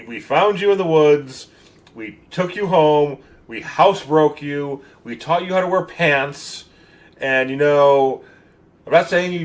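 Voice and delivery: emphatic, put-upon telling-off, easing at the end; mock exasperated scolding. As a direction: list each favor like an aggrieved host. Acted scolding of ungrateful house guest.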